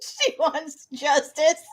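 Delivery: giggling through the words; laughing it out. Real, not acted. Echoing the line while laughing.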